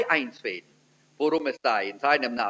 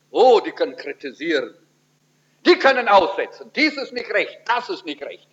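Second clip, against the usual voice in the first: mock fault-finding; 4 dB louder than usual. Mocking know-it-all critics.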